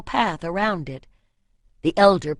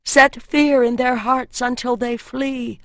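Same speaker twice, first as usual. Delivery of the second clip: prayer; 5 semitones higher, 6 dB louder than usual. A narrator's reading. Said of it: "the priestess prayed".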